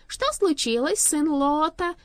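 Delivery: high, loud alarmed demand; dreadful foreboding. A narrator's reading. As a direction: demand news in rising dread. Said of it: "задрожав от ужасного предчувствия".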